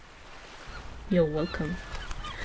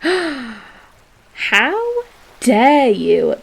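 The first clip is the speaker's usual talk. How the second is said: mock offense; 4 semitones higher, much slower than usual. Listener objects to pickles.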